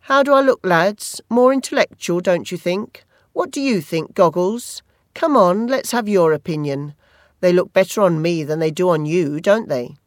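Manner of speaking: lightly voiced school bully, teasing and smug; mocking bully. Barry Cowan taunting the boy in the toilets, lightly mocking. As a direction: sneer at him like a cocky schoolyard bully.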